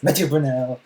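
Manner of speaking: mimicking a hurried self-introduction; rapid-fire name. Streamer imitating the director's introduction, rapid-fire. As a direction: rattle the name off as one quick blur. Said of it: "says his name really fast".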